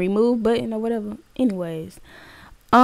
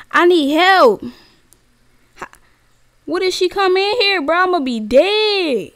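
high-pitched worried wail; panicky whine; 8 semitones higher than usual. Real, not acted. Player fearing Granny comes in, high panicky whine. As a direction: plead helplessly, voice climbing high.

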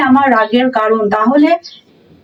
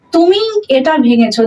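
তুমি pressed, rest of the line light; teacher emphasising তুমি; stress on তুমি; 3 semitones higher than usual. Shown as a demonstration. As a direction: make তুমি carry the sentence. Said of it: "এর উপর emphasise করা হচ্ছে".

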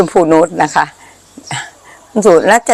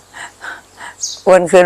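very slow and careful; spelled out slowly after speaking too fast; deliberately slow; much slower than usual. Real, not acted. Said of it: "พูดเร็วไป".

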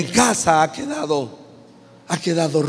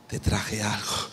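low slow voice; 8 semitones lower, 7 dB quieter, slower than usual. Acted. Booz answering again.

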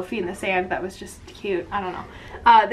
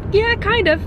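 much higher, light imitation of her friend; high mock friend voice; 12 semitones higher than usual. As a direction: squeak it out like a teasing friend. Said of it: "She's like".

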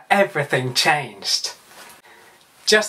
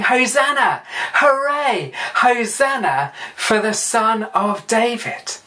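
mock cheer, pitched up; imitated crowd shouting; 5 semitones higher than usual. Preacher acts out the Palm Sunday crowd, mock shouting. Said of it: "the crowds were shouting".

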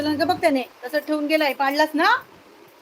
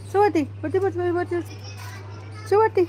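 higher, drawn-out coaxing call; 5 semitones higher, slower than usual. Real, not acted. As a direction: coax the dog up onto the seat. Calling dog up, high. (कुत्रीला वर बसण्यासाठी उंच लाडिक हाक)

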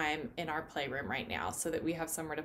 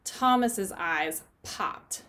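put-on storybook read-aloud for kids; picture-book reading for a children's Bible lesson. A narrator's reading.

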